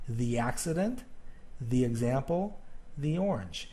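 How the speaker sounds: "the accident, the example, the orange", each "the" said thee; long E on each "the". Shown as a demonstration. Teacher listing vowel examples, each "the" as thee. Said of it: "It rhymes with the word see".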